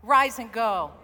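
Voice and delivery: loud congregational call; rousing call. Shown as a demonstration. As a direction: rise and go called out loud. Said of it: "Say it one more time".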